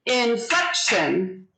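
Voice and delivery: INFLECTION slowly in three parts, in-flec-tion; slow teaching model of INFLECTION; syllable by syllable. Shown as a demonstration. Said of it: "it's three syllables".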